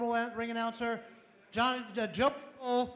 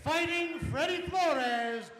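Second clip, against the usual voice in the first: boxing ring announcer. Acted. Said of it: "I am the ring announcer tonight".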